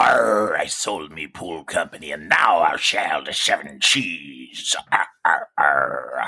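lightly growled jokey pirate talk. Retold or imitated. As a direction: ham it up like an old sea pirate. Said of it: "you're like a pirate".

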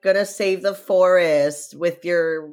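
slow, high, gushing mockery; mocking impression. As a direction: gush like a dopey admirer. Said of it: "he's like".

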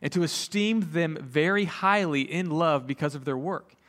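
measured, solemn Bible reading; scripture reading. Acted. Pastor reading an epistle to the congregation, measured scripture reading. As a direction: read it out deliberately, with pauses between commands.

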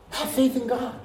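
voicing Jesus. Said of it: "Jesus said".

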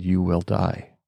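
understated imitation of a dramatic instructor. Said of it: "he was very dramatic about it".

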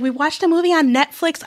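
high, sing-song imitation of a child; mimicking a little kid; mock kid voice. Kid quoted, mocking high voice.

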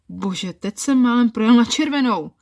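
startled shout at a near miss. Acted. Man yells after running a red light, startled shout. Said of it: "zakřičel Roman".

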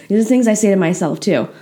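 talking around a hair in the mouth; words a little muffled by something in the mouth. Real, not acted. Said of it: "I have dog hair in my mouth".

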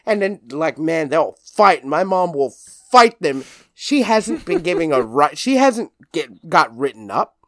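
ordinary delivery

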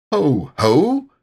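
loud sudden call to startle Piglet. A narrator's reading. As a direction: jump out with a loud, playful call. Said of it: "said Christopher Robin loudly and suddenly".

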